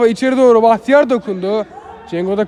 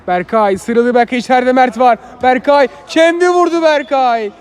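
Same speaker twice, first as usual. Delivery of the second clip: excited commentary; 3 semitones higher than usual. Real, not acted. Attack building in live commentary.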